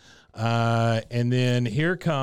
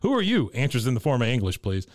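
imitating Dale. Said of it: "He goes".

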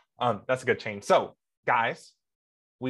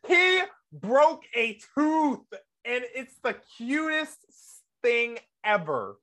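high, drawn-out squeal of adoration; swooning gush; 8 semitones higher, slower than usual. Pretend. Fan gushing over a crush's broken tooth, swooning. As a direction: gush slowly, melting over every word.

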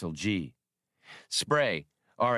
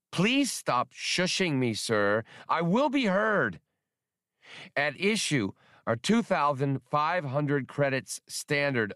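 indignant skip tracer; 6 semitones higher than usual. A narrator's reading. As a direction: refuse to be shushed, pompous. Spray insists on being heard.

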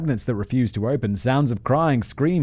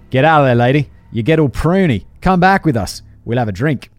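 louder, matey Australian coaxing; a jokey, bad Australian accent inviting the ghost for a drink; 3 semitones higher, 6 dB louder than usual. Alex coaxing the bathtub ghost out, in a terrible Australian accent. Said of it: "I'm gonna try it".

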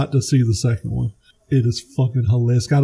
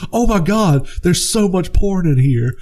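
higher, lightly voiced disbelief; hammed-up shocked higher voice; mock shocked Ted; 5 semitones higher than usual. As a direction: play up Ted's fake shock. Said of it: "he's like".

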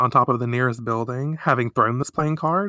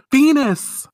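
voice calling out; 13 semitones higher, 6 dB louder than usual. Retold or imitated. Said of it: "she hears".

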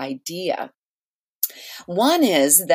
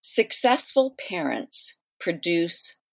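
slow, deliberate delivery, word by word; slowly and deliberately; 3 dB quieter than usual. Shown as a demonstration. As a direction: spell the phrase out slowly so it lands. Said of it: "I'll say it slowly or say it twice".

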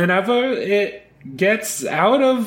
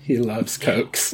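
deep slow voice; 10 semitones lower, 4 dB quieter, slower than usual. Acted. Low slow repeat.

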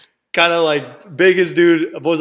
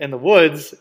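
normal talking voice

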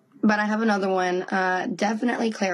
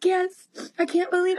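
excited; 10 semitones higher than usual. Retold or imitated. Mom retelling tearful joy.

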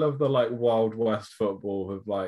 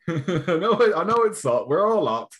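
put-on old-school manager rant; 5 semitones higher, 3 dB louder than usual. Mock old-time manager halftime speech.

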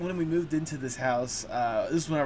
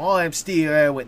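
put-on light stereotypical Australian accent, a bit louder; 6 dB louder than usual. Host showing guest his stereotypical Australian accent impression. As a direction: toss off a stock Aussie accent, Steve Irwin style. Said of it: "the stereotypical".

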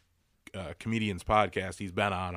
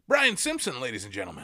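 announcer intro; 4 semitones higher than usual. Real, not acted. Host introduces comic on stage.

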